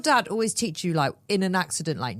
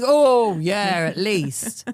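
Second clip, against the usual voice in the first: vague mechanic; 7 dB louder, much slower than usual. Retold or imitated. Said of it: "Is it gonna take".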